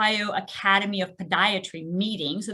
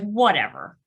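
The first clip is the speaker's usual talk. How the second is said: cocky. Retold or imitated. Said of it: "Like a cocky son of a gun".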